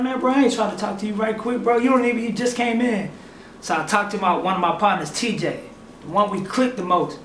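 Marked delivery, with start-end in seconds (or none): 0.0-3.1 higher, mildly irritated retort; indignant brush-off. Retold or imitated. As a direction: dismiss the newcomer, retold with some heat. Acted brush-off of the newest member.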